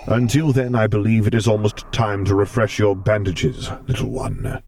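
a hint of a gentle stern lord; Vader voice.

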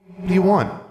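put-on high, childlike little-girl voice; ghost girl. Ghost girl greeting Alexandra, high childlike voice. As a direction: play a small prim ghost child.

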